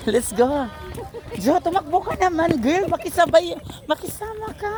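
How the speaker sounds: high urgent call to a lagging friend; calling out while running. Real, not acted. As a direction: shout encouragement mid-jog. Urging friend to run, jogging.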